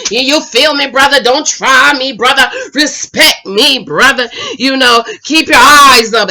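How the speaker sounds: imitating a worked-up man, punchy emphasis; mildly hammed-up indignant warning to a rival; mock emotional. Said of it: "Hollywood is getting all emotional".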